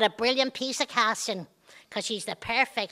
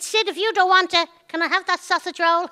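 1 coaxing; 5 semitones higher, 5 dB louder than usual. Retold or imitated. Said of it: "trying to cajole".

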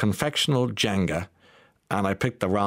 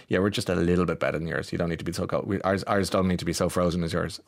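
smug rival; 3 semitones lower than usual. Retold or imitated. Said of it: "the other guy goes".

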